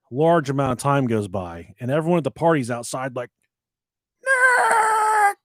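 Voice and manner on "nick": high, loud yell across the yard; screaming a name. Retold or imitated. Partygoers outside searching for him, yelling. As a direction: call out for the missing kid. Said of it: "They're, like, screaming for me".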